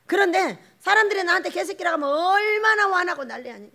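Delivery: ordinary delivery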